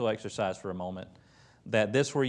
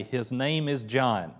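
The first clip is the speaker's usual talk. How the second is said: calm, slow, matter-of-fact statement; settled matter-of-fact tone; slower than usual. Retold or imitated. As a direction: state it as plain fact, unhurried. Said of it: "in a very matter-of-fact way".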